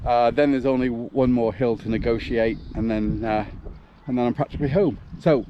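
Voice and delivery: out of breath mid-run; puffing and panting while running; while jogging. Real, not acted. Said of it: "as you can hear, I am puffing and panting a bit".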